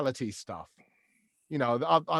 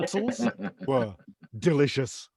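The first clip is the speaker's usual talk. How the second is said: lightly voiced chef's verdict; Gordon Ramsay; 2 semitones lower than usual. Chef praising the sauce, measured mock-gruff delivery. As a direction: praise in separated words. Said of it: "even when he's handing out praise".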